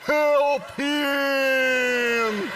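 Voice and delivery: very high loud yelp; neighbor dog voice. Retold or imitated. Neighbor dog joins in the barking, high loud yelp. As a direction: howl it like the dog next door.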